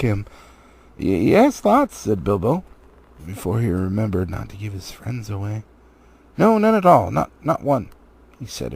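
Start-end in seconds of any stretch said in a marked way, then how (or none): 1.0-2.0 stammered, jumping much higher on lots; mildly frightened hobbit stammer; stammering fright. Acted. 6.4-7.9 louder, much higher hurried take-back; a touch of hobbit panic; panicked denial. Acted. Bilbo hastily takes it back.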